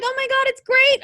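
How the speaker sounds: high, sing-song fan gush; mock gushing fan. Mocking wrestling fans who praised the bad finisher, in a high gushing voice. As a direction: parody the fans who loved it. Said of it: "everybody else is like".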